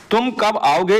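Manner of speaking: तुम कब आओगे? read with a rising question tune; teacher demonstrates a question. Shown as a demonstration. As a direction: lift the end of तुम कब आओगे? like asking. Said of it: "इस वाक्य में उचित विराम चिन्ह".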